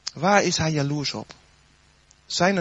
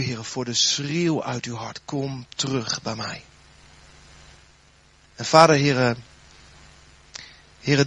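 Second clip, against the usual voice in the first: fervent prayer. Acted. Pastor praying over the congregation, earnest prayer voice. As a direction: pray intimately over the congregation.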